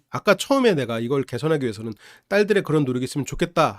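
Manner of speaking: usual speaking voice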